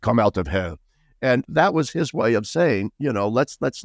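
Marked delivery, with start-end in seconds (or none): 0.0-0.8 put-on German accent. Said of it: "so he had this thick accent".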